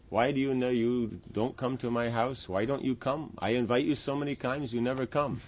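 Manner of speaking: mildly pleading host, pitched a little up; lightly acted reproach to a guest; mock complaint. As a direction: complain as a put-out host, half in earnest.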